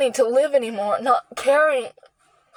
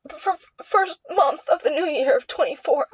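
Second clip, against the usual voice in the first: voice breaking; 4 semitones higher than usual. Real, not acted. Recalling crash, voice breaks.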